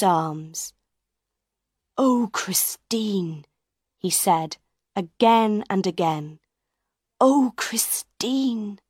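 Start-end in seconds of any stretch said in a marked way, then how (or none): 2.0-3.4 tender. Acted. Raoul embraces Christine. 7.2-8.8 slow, higher, tender sigh; lover's slow, higher sigh of relief. Acted. Raoul repeats it again and again.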